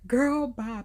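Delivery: bright sassy brush-off; dismissive. Real, not acted. Repeating the brush-off to viewers with sass. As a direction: toss it off with attitude.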